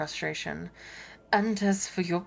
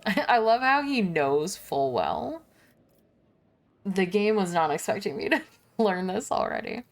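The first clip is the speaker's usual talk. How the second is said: laughing aside; 2 semitones higher than usual. Real, not acted.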